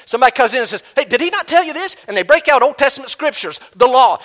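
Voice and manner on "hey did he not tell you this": mock legalist voice. Preacher voices a legalist challenger.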